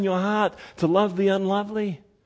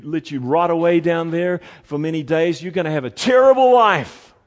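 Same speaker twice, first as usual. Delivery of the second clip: grim prophecy; 3 semitones lower than usual. Acted. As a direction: swell into a hammed-up proclamation of doom. God's grim forecast to Jeremiah, acted.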